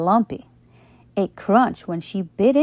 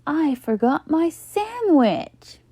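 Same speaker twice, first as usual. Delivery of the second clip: higher, slow, a touch sad; 8 semitones higher, slower than usual. A narrator's reading. Buster telling friends he forgot lunch, sad. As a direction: let it droop. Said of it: "Buster said sadly".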